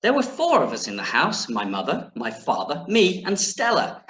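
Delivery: lilting read-aloud listing the family; story narration. Acted. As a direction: read to children with a lifted start and finish. Reads the book aloud.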